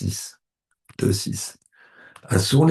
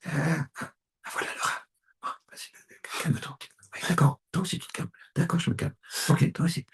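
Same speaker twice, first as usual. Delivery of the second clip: acted couple's quarrel; 7 semitones higher, 6 dB quieter, faster than usual.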